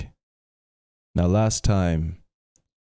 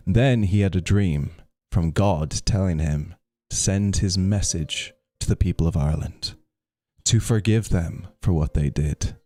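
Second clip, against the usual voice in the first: measured storybook reading; story narration. A narrator's reading. Streamer reading Saint Patrick's story to viewers, story narration. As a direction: read the legend out to listeners, phrase by phrase. Reads a legend aloud to stream.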